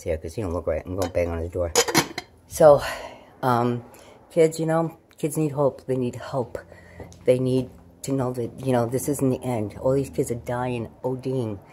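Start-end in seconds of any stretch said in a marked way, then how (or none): 5.9-6.6 breathy whisper, pleading; hushed urgent plea. Real, not acted. Urgent plea to viewers, voice drops.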